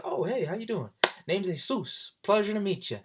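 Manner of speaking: put-on cocky guy introducing himself to a girl; smooth pickup line. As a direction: deliver it with a cheeky wink.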